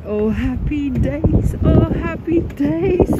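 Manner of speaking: slow, lightly put-on singsong; a hint of Karina's cheer, drawn out; mock Karina. Imagining what she'd say to Karina, slow mock cheer. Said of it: "If Karina was here, I would say".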